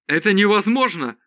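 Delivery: high-pitched exclamation of denial; disbelieving cry. A narrator's reading. Zod refuses to believe the dragon lives, high cry. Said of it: "крикнул Зод".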